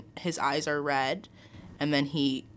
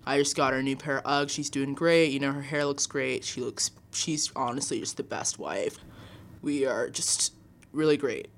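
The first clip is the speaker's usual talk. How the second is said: Tom Brady impression; 3 semitones lower than usual. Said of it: "he's right here. Tom".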